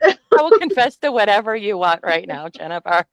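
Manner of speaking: loud, crying plea; hammed-up crying surrender; mock tearful confession. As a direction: beg for mercy with a fake sob. Mock begging the trustee.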